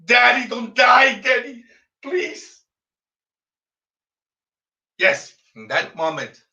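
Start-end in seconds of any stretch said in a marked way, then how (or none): 0.1-2.6 put-on screaming kids. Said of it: "They were screaming".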